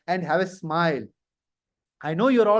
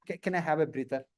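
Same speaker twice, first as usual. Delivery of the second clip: low, soft polite request; quiet, deferential plea; tense candidate; 7 semitones lower, 9 dB quieter, faster than usual. Acted. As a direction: meekly ask for a breather. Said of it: "If you are tense".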